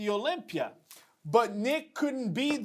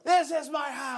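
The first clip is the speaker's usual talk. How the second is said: impersonating Nick Walker; 5 semitones higher than usual. Retold or imitated. Host prompts the speaker, mimicking the winner's boast. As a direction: imitate the champ claiming his turf. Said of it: "Chris has the best impersonation".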